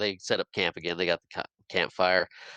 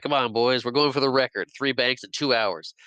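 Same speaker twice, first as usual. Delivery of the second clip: higher, lively retold rallying call; rallying the gang; 4 semitones higher than usual. George rallies the boys before robbing banks, rallying call. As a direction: voice a leader firing up his boys lightly.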